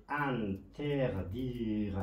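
slow, stretched "انتردیر" opening on AN; IN read as اَ. Shown as a demonstration. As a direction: draw out each syllable of "انتردیر", first vowel A. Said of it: "صدای ا، ا را داده". («انتردیر» کشیده، با صدای اَن در اول)

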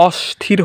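অস্থির mispronounced with a hushing sh before th. Shown as a demonstration. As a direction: say অস্থির with sh, "oshthir". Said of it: "হচ্ছে না".

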